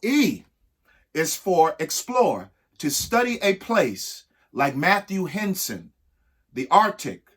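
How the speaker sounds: measured, sing-song reading of an alphabet rhyme; rhyming read-aloud. Acted. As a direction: read it like a picture book for kids. Reads an ABC poem aloud.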